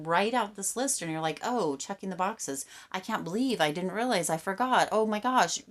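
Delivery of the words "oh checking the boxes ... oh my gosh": excited realization. Retold or imitated. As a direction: act out a client suddenly remembering their achievements. Imitating client's excited realization.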